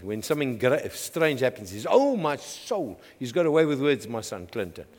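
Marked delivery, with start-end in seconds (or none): 1.9-3.0 soft, slow, mock dramatic sigh; lightly voiced child's pet phrase; son's oh my soul, quietly played; imitating his son. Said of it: "He loves saying this".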